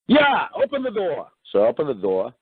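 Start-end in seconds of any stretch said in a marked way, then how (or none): 0.1-1.3 high, slow mock cop order; lightly hammed-up trooper voice; cop command. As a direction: drag it out like the stern trooper.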